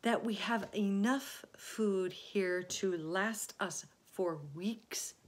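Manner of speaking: slow, deliberate explanation; measured, patient reasoning. Acted. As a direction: lay it out word by word. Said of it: "he said patiently".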